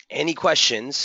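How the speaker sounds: strained, fading voice; losing voice. Real, not acted. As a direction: speak through a voice that's giving out. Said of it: "losing my voice here".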